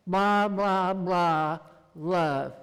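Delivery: loud, sing-song child mimicking the preacher; a schoolgirl parroting a sermon, loud; mocking little girl. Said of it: "second grade daughter chimed in and says".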